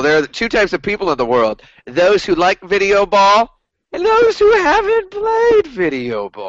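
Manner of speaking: hammy clown sing-song; silly clown. Pretend. Hammed-up joke line, rising high.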